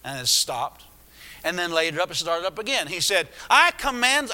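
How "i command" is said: high, forceful mock command; quiet yell. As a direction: imitate a commanding yell held inside. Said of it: "quietly like you were yelling it".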